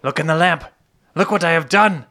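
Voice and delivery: proud little genie showing off; excited genie. Acted. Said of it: "I hop out of the lamp".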